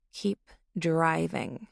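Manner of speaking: slow, deliberate, cold command; slow menacing order. Acted. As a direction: draw each word out as a threat. Passenger orders at knifepoint.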